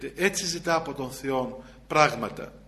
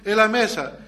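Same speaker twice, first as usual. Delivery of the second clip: calling out to customers; 3 semitones higher, 4 dB louder than usual. Retold or imitated. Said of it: "σου φωνάζει".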